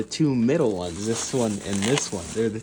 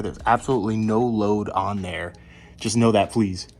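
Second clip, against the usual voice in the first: insistent; 5 dB louder than usual. Real, not acted. Insisting the jack is safety only.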